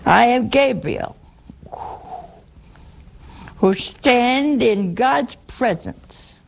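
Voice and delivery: a hint of a solemn angel, drawn out slowly; Gabriel's proclamation. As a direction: announce yourself slowly like a grand angel. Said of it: "I think that's how he said it".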